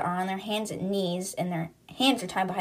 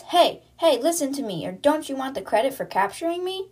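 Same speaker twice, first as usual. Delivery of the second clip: imitated shout, pitched up; retold yell; 5 semitones higher than usual. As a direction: call out for their attention, mock yelling. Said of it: "Anna yells".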